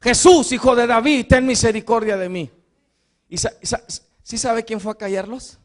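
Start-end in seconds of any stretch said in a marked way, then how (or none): 0.0-2.5 blind man crying out. Retold or imitated. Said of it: "aquel ciego que gritaba".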